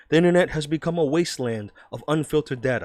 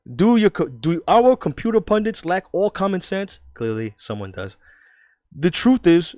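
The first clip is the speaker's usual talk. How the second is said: emphatic, loud New York columnist; New York accent; 4 dB louder than usual. Acted. Reading out the journalist's doubts about computers, New York accent. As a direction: argue it like an opinionated New Yorker. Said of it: "I'm gonna do a New York accent".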